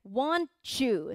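"Want you" blurred into "wan-chu"; blended pronunciation. Shown as a demonstration. Teacher modelling linked lyric words, "Want you" as wan-chu. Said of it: "はっきりはしない".

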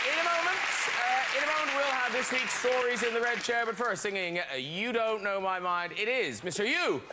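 show announcer. Real, not acted. Host introducing the song on a talk show, announcer style. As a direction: announce the singer to the studio audience.

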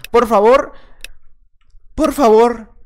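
loud pleading cry; pleading to self. Real, not acted. Gamer scolding himself after losing, loud pleading. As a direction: beg yourself to play well. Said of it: "haz las partidas lo mejor que puedas".

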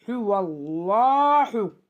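"Huvallahu" chanted slowly with a heavy, dark lam; thick lam recitation. Shown as a demonstration. Teacher showing the rule to students, "Huvallahu" with thick lam. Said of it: "ötre ise kalın okutur".

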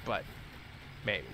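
ordinary delivery

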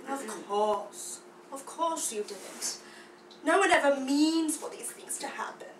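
low, soft, insinuating voice; hushed stage villain; sinister villain. Acted. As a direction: lay the blame quietly, in a deep tone. Acted villain blames the cub.

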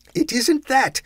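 high, loud, stung denial; heated retort. Acted. Scrooge stung by the ghost's remark, heated and loud. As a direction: fire back, stung. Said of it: "heated by the remark".

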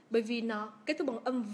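ordinary talk, nothing marked

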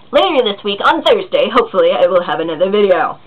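crisp upbeat news read; newscaster voice. Real, not acted. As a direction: announce it like a TV anchor. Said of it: "I said that in newscaster voice".

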